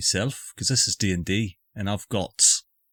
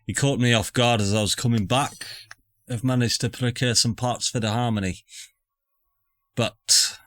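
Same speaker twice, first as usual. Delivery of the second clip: put-on Scottish accent. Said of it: "I picked up this accent".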